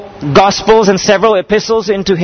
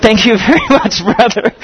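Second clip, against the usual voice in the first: laughing. Real, not acted. Laughing thanks to friend.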